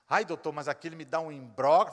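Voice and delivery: loud sighing complaint; complaining mother. Retold or imitated. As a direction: moan about your distress as the mother. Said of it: "mother complaining".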